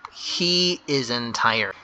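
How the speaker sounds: spelled out slowly for the class; teacher dictating an answer, slow; slow dictation. Shown as a demonstration. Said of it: "make sure to start with the big H".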